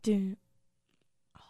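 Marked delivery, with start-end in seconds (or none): 1.4-1.4 fast, airy teasing whisper. Real, not acted. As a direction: hiss it close to the mic. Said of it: "why are you whispering?".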